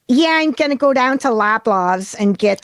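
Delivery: nasal Buffalo accent with vocal fry. Shown as a demonstration. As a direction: Buffalo voice, swallowed in the throat. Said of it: "I can't even do this accent".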